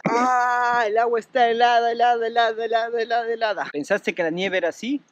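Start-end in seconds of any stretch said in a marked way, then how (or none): 0.1-3.7 yelping from icy water; gasping at the freezing water; in ice cold water. Real, not acted.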